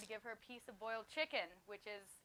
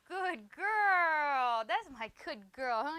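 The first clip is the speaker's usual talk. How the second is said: high, much louder praise for the dog; excited praise; 6 semitones higher, 12 dB louder, much slower than usual. Real, not acted. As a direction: reward her with a happy cheer. Praising dog after success.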